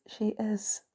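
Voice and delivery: whispered; soft whisper. A narrator's reading. Pepper answers Tony about the kid, whispering. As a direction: breathe it softly. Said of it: "Pepper whispered".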